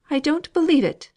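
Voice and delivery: high, loud outburst of disbelief; indignant denial. A narrator's reading. Fanny rejecting the servant's gossip, indignant and loud. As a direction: fling it back, indignant.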